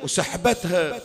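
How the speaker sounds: rising, wailing majlis chant; mourning chant of a Shia preacher; lament recitation. Acted. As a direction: grieve aloud over the tale.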